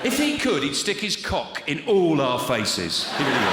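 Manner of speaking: loud comic disgust; loud rant. Acted. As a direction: push the outrage. Comic outrage peak.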